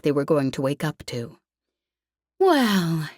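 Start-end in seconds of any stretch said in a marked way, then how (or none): 2.4-3.1 a slow, mock-tipsy drawl on the word; lazy drawl. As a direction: stretch it out like a tipsy player. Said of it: "she drawled".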